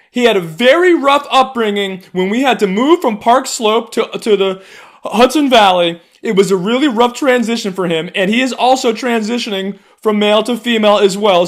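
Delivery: hammed-up whiny rich white lady; mocking rich white liberal. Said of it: "these white people were just like".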